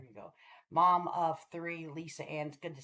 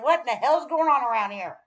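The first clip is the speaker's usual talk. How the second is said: louder, higher what in the hell; retold disbelief; 5 semitones higher, 6 dB louder than usual. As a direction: exclaim in disbelief. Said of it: "I said".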